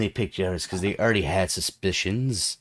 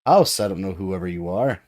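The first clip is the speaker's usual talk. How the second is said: haughty; 4 dB louder than usual. Acted. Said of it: "she says".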